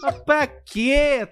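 imitating the boss. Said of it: "e o pai".

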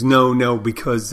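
quick, stumbling mock protest; a little flustered. Traffic reporter answering the man off screen, a little flustered. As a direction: imitate someone caught off guard, tripping over the start. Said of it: "the woman got a little flustered".

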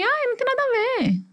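very high, drawn-level mom voice; imitated reassuring mother. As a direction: mimic mom waving the worry away, high-pitched. Mãe tranquiliza a filha, relato. (imitando a mãe despreocupada, bem aguda)

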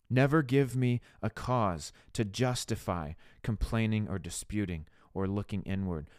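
earnest prayer with firm emphasis on key words; fervent prayer. Shown as a demonstration. Speaker asking the Father for a heart for others, fervent prayer. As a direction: plead sincerely with God, phrase by phrase.

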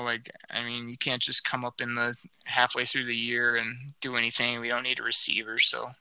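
hoarse voice. Real, not acted. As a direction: voice shot from yelling. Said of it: "my voice is basically shot".

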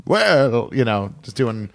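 crazy voice, lightly imitated; imitated crazy voiceover voice; Matt Berry. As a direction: draw out the word in mock actorly voice. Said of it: "Matt Berry has a crazy voice".

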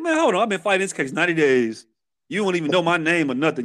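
high-pitched protest easing downward; retold objection. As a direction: cut in high to object, then settle. Retold objection to new attorney.

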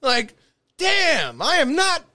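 high, loud pleading; exasperated high protest. Real, not acted. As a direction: beg for leeway half-laughing. Defending himself, heated.

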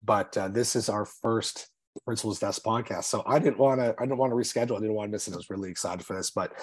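congested, under the weather; stuffy nose. Real, not acted. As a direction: voice of a head cold. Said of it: "I sound a little under the weather here".

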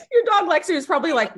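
laughing high while talking; high laugh spilling into the words. Real, not acted. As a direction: laugh it out, squeaky. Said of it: "laughing at friend's story".

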